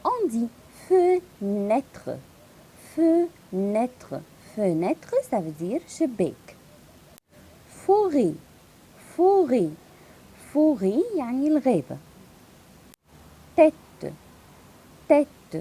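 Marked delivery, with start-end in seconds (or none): 0.9-5.1 fenêtre with an open ê. Shown as a demonstration. Teacher drilling fenêtre with circumflex ê. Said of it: "L'accent circonflexe". 7.8-11.0 Forêt loud, open ê; emphatic forêt. Shown as a demonstration. Teacher calling out forêt for students. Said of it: "L'accent circonflexe". 13.6-15.6 Tête called out loud, open ê. Shown as a demonstration. Teacher calling tête loudly to class. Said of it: "L'accent circonflexe".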